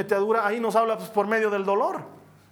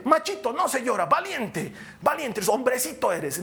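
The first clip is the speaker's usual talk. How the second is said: high-pitched mock encouragement to a small boy; coaxing a little boy; 4 semitones higher than usual. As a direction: talk down to a little macho. Voices elders coaxing a little boy. (animando a un machito, con voz aguda)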